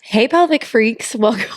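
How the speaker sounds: announcer voice. Shown as a demonstration. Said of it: "Like an announcer voice".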